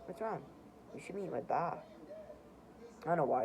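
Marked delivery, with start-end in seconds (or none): 0.1-1.8 lightly attempted Irish lilt; attempted Irish accent. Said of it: "I tried to make him sound Irish".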